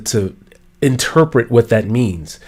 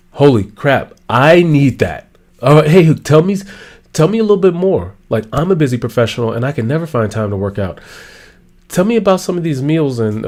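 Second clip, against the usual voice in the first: excited listener. Acted.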